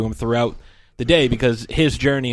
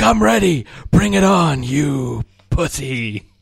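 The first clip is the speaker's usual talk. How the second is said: mock defiant challenge; 2 semitones higher, slower than usual. Unhinged Frank challenges the costumed ghost, mock defiant. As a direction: act out a cocky dare, stretching the last words.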